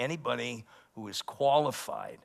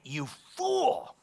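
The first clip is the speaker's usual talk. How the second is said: much higher, loud, slow divine rebuke; voice of the Lord; 10 semitones higher, 6 dB louder, slower than usual. Retold or imitated. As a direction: pronounce judgment slowly from on high. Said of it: "The Lord said to that man".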